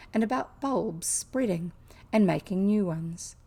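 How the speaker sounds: measured storybook reading; story narration. A narrator's reading. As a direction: read it aloud as an unhurried story. Reads a novel aloud.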